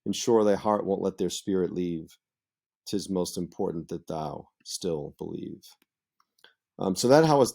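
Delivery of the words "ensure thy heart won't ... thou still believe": poem recitation. Shown as a demonstration. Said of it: "And then the couplet at the end".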